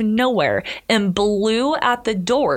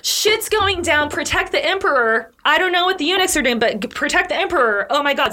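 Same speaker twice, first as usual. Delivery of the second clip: retold yell at guards; 6 semitones higher than usual. Official yelling at the guards to protect the emperor, high urgent call. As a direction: bark orders in a raised, high panic. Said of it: "So he's yelling at the guards".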